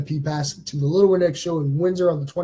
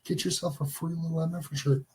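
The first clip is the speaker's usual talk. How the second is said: ordinary talk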